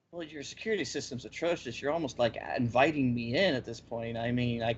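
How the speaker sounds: low, unbothered deadpan reply. Retold or imitated. Intruder answers the watchers' question through the screen, deadpan. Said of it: "deadpan looks at the screen and answers their question".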